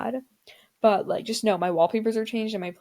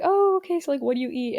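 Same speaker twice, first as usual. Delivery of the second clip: imitating the teacher; 5 semitones higher, 3 dB louder than usual. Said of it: "he was like".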